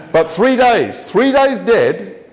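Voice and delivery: 「three days」を高く強く、「dead」はゆっくり伸ばす; stress on three days. Acted. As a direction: lean hard on three days, slowing down.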